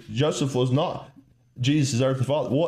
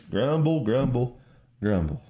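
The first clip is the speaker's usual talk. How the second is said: mock grumbling. Preacher mimicking people complaining about gas prices, mock grumbling. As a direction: grumble stepping down in pitch.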